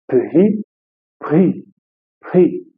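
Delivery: Pri said quickly with a French R; fast pri, pri. Shown as a demonstration. Teacher drills pri said fast. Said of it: "e vou falar rápido".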